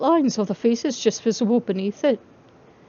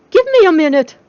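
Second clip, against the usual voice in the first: higher and louder call to the door; 8 semitones higher, 10 dB louder than usual. Acted. Charlie calling to John at the bedroom door, loud. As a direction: call across the room, half awake. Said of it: "Charlie called".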